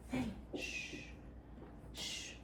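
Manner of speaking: soft hush to a dog; shushing. Real, not acted. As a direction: hush him softly, almost breath. Hushing the dog.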